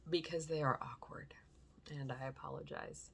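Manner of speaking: soft unvoiced aside; whispered apology. Real, not acted. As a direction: murmur the apology under breath. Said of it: "unvoiced whisper".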